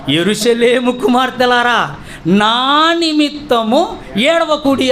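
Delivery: solemn quotation. Retold or imitated. Quotes Jesus' words from scripture.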